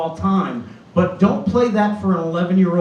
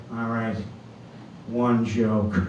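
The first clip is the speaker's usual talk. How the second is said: stern nun; 8 semitones lower, 6 dB quieter, slower than usual. Retold or imitated. Nun grudging.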